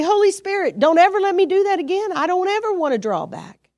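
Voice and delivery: rushed pleading prayer. Shown as a demonstration. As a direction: plead with God quickly. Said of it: "So I'll say".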